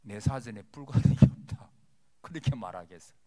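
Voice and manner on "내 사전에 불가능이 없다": 경상도식으로 크게 내지르는 허세; 훨씬 크게, 무뚝뚝하게 우기듯; blunt Gyeongsang-style boast. Retold or imitated. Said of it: "경상도 말로 시건이 안 들어서면은". (철없는 사람이 경상도 말로 큰소리치듯)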